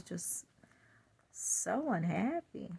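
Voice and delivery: whispered sad confession. Real, not acted. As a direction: whisper the hidden sadness. Confessing inner sadness.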